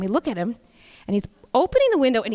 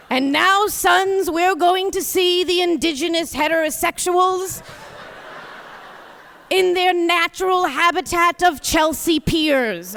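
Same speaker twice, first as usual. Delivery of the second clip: slightly higher, a light nature-documentary guide; mock safari guide; 5 semitones higher than usual. Wife mocking the family car ride, lightly voiced safari guide. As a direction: play tour guide on a drive-through safari.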